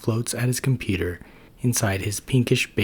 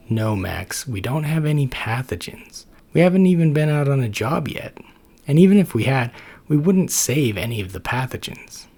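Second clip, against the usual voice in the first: exasperated Ted; 5 semitones higher than usual. Acted. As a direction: spell it out for the hundredth time. Ted explaining to Max.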